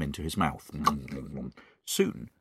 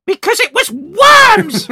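much higher, much louder, slow shrieked reveal; Mrs Twit's triumphant cry; 17 dB louder, slower than usual. Acted. Mrs Twit revealing the worms to her husband, loud high shriek. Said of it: "cried Missus Twit".

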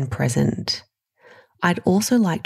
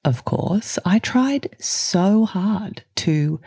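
reflective letter reading. Acted. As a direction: read it like a personal letter. Reads her letter to listener.

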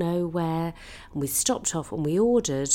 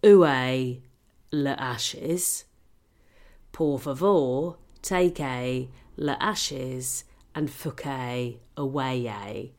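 mock French; 4 semitones lower, slower than usual. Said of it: "that is basically saying".

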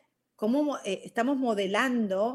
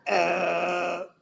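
irritated growl; 3 semitones lower than usual. Retold or imitated. Imitates irritation at hearing yelling.

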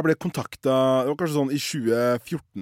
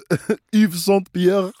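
laughing mockery; 5 semitones higher, 5 dB louder, slower than usual. Real, not acted. Mocking fake brand names.

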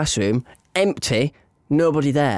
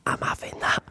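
low-volume sneaky whisper; whispered thought; 8 dB quieter than usual. Retold or imitated. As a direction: whisper it like a secret scheme. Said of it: "I looked at it and I thought".

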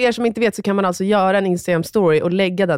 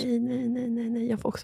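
hushed no; 4 semitones higher, 10 dB quieter than usual. Real, not acted. Friend answers in hushed tone.

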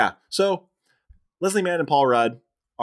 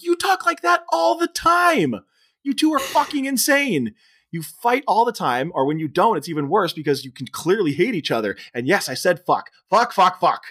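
put-on angry teen outburst; 6 semitones higher than usual. Teen daughter yells at parents.

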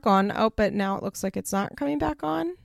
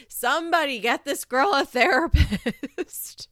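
pleading whisper; 6 semitones higher, 4 dB louder, slower than usual. Pretend. Begging someone to get therapy.

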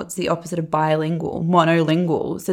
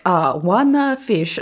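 Zach; slower than usual. Retold or imitated. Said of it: "Zach, like, mocks when other people do that".

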